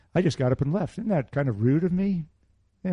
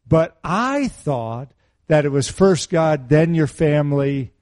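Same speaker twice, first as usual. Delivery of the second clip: imitating his wife; 5 dB louder, slower than usual. Quoting wife's objection.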